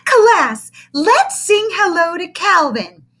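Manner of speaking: slow, high, sing-song chirp; a syrupy kindergarten teacher cooing; chirpy teacher. Acted. Teacher greets the big new boy, chirpy and high.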